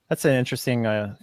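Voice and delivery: soft unvoiced whisper. Real, not acted. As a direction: breathe it out under your breath. Skeptical aside after accusation.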